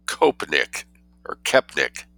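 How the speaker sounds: kopnik then kepnik, both slow and tentative; reader unsure of pronunciation. Shown as a demonstration. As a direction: try both ways of saying kopnik. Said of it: "K O E P, so it's cope or kepnickery".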